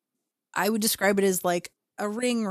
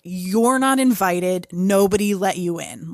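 mild mock yell; 5 dB louder than usual. Teenager ordering a dark presence out of the house, mock yell. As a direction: raise the voice as if ordering it out, short of screaming.

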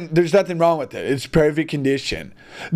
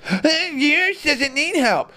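higher, slow sneering mock voice; lightly mocking a dismissive critic; 8 semitones higher, slower than usual. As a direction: drawl it out with mock disdain.

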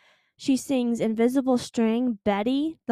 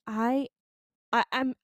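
breathless stammer; out of breath and stumbling. Real, not acted. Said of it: "I'm out of breath".

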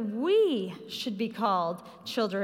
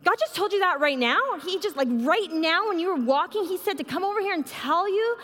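astonished; 7 semitones higher, 4 dB louder than usual. Retold or imitated. Stranger stunned by the message.

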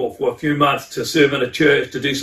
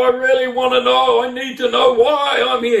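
high, put-on whine held all through; hammed-up plaintive begging, high-pitched; whiny pleading; 8 semitones higher than usual. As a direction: imitate a child insisting on an answer. Acts out protesting to God.

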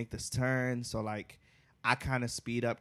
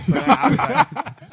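breaks into high laughter mid-sentence; can't get the words out for laughing; laughing too hard to finish the story; 14 semitones higher, 13 dB louder, slower than usual. Real, not acted. Cracks up retelling story.

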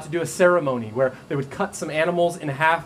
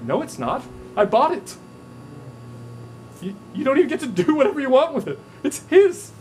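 building from plain to much higher, louder declaration; rising insistence; 9 semitones higher, 3 dB louder than usual. Retold or imitated. God telling the believer their body is bought, rising to a loud cry.

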